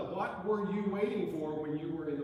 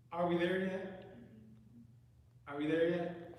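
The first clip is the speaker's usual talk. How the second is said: put-on pestering child; 5 semitones higher, 3 dB louder than usual. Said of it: "the old proverbial".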